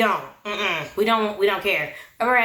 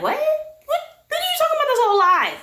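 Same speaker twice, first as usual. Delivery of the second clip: very high, squeaky incredulous what; shocked disbelief. Retold or imitated. Friend reacts to David's claim, shrill and shocked. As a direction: shriek it out in disbelief.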